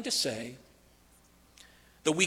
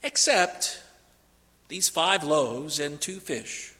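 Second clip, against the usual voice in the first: tacked on quietly, slowed down; an afterthought, softer and slow; 2 semitones lower, 4 dB quieter, slower than usual. Retold or imitated. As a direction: add it almost under your breath. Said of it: "almost as an afterthought".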